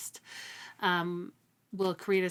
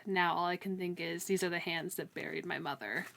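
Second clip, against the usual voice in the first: reading aloud from the book. Shown as a demonstration. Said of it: "can I just share that with you".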